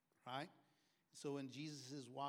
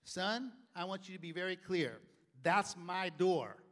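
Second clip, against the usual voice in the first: threatening dad; 5 semitones higher, 15 dB louder than usual. Retold or imitated. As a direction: dare the kid to come. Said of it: "He goes".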